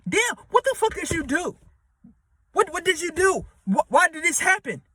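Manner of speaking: high, accusing freak-out; mock blame. Passengers blaming each other on the sinking ship, high accusing panic. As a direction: turn on the other one in a panic.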